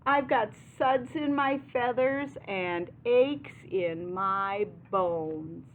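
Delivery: lightly voiced duck complaint, slowing at the end; mildly hammed-up storybook grumble; moaning duck. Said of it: "the duck moans".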